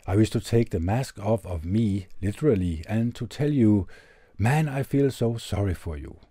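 lightly performed letter reading, earnest and measured; reading a heartfelt letter aloud. Acted.

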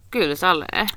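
voiceless whispered agreement; playful whisper. Pretend. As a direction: whisper it back, playing along. Playing along with whisper-only voice. (leikkisästi kuiskaten)

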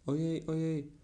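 frightened gasp. Acted. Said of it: "rzekł prosiaczek do siebie".

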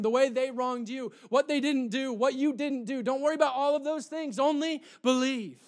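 insistent, driving sermon delivery; impassioned preaching. Real, not acted. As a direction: press each repeated exhortation home. Preaches at full force.

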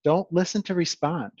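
slow, emphatic preaching; preaching moment. Acted. Podcast host preaching to listeners, slow and emphatic. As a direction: lay it down like a sermon. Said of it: "that's my preaching moment".

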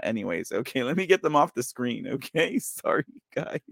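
normal talking voice

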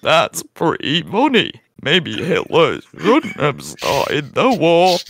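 slow, exaggerated English accent with swooping pitch; hammed-up English drawl. Host retrying an impression of Brutus, hammed-up English accent. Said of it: "Let me figure this out in an English accent".

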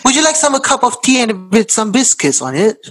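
a terrible stab at an Australian host offering tea; bad Australian accent. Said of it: "that was horrible".

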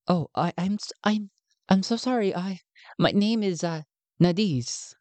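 flustered and apologetic, tripping over words; nervous stammer. Acted. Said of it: "she is obviously very anxious".

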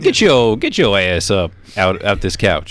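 short demo of a mock Black American accent; slow into the put-on African American accent. Shown as a demonstration. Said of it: "I just do black voice".

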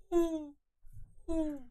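relaxed owl hoot. Shown as a demonstration. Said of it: "힘을 빼고 낸다".

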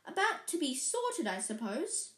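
lightly voiced friendly monk; a hint of a cheerful friar; fat friar voice. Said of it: "said the fat friar".

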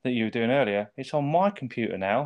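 Jake Lloyd. Retold or imitated. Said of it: "Jake Lloyd's computer. And he's like".

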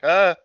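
small imitated cry of alarm; startled gasp imitation. Imitating Gizmo startled by water.

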